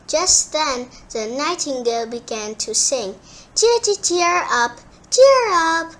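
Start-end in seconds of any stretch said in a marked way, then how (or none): 3.5-5.9 high, loud chirpy birdcall; birdsong voice. Acted. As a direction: sing it like a bird. Nightingale sings.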